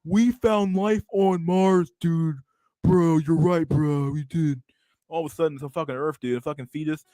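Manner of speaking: stoner bro voice, lightly shifted; dude bro voice. Pretend. Streamer does his bro voice about bacteria on Mars. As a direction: hype it up like an amazed bro. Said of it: "have I done all my voices yet".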